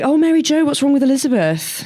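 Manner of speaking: high, lilting teacher voice; lightly voiced concerned teacher. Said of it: "and was like".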